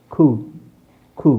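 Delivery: ಖೂ ending on an open long oo; silent P. Shown as a demonstration. Teacher pronouncing the spelt word, silent P. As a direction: say ಖೂ with no p at the end. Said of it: "ಪಿ ಇಲ್ಲ ಅಲ್ಲಿ".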